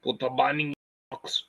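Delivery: lightly done Austrian action-star impression; a restrained mock Austrian accent; Arnold Schwarzenegger. Streamer trying out movie lines, restrained Arnold impression. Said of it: "trying to sound like Arnold Schwarzenegger".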